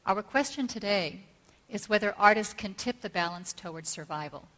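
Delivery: measured oratory with deliberate pauses between phrases; formal speech. Real, not acted. Speaker opening a talk on art and survival, formal speech. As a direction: read out a solemn prepared address.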